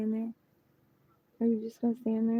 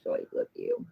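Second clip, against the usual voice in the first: sweet high coo to a pet; 4 dB quieter than usual. Real, not acted. Cooing to a pet.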